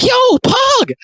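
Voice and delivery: high-pitched mock sports-fan shout; hammed-up, squealing-high cheer; excited cheer. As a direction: whoop it like a fan at a touchdown. Acting gamer father cheering a touchdown.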